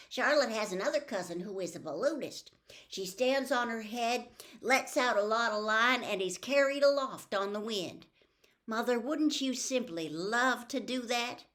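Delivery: put-on high, bright, loud little girl; excited child showing off to her mother; Fern's eager girl voice.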